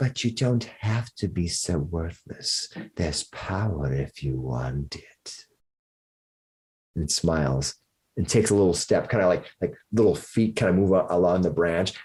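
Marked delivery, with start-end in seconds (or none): 0.0-5.4 soft, slow cackling creature voice. A game narrator voices a creature on a branch speaking to a player, cackling creature voice. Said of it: "it kind of cackles to itself".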